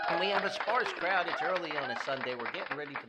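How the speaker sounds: loud announcer voice to an empty room; mock crowd announcing. Host announcing to an imaginary crowd, loud and hammed-up. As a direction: boom it out like addressing an arena. Joking about a sparse crowd.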